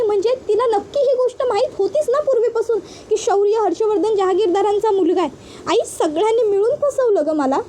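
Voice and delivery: upset daughter asking why she was tricked; distressed pleading. Acted. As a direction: plead with mother, hurt and bewildered.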